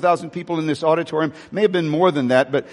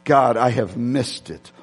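retold lament; 5 semitones lower, slower than usual. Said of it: "I heard him say".

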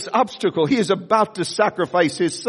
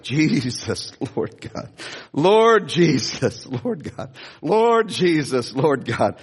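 slow, lower, half-whispered pleading to God; desperate prayer; 4 semitones lower, much slower than usual. Retold or imitated. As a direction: plead under your breath, slowly. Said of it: "I was like".

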